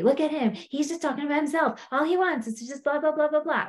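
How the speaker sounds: imitating a griping wife; mock complaining. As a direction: run through a mock gripe about someone. Acting out complaining about her husband.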